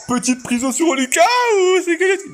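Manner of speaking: excited shout. Real, not acted. Streamer hyping a prison on Lucas, excited shout. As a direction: call it out high and excited.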